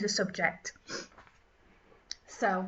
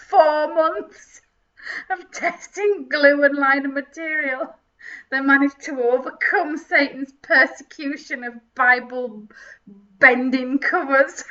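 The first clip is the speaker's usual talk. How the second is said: mock sobbing; 7 dB louder than usual. Mock sobbing over glue tests.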